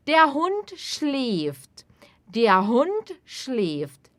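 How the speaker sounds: very slow, clear and even; slow model sentence. Shown as a demonstration. Teacher modelling sentence slowly for repetition. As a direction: spell it out slowly for learners. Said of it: "teacher models sentence".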